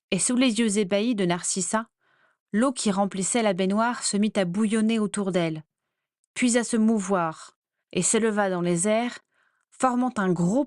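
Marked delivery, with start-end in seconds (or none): none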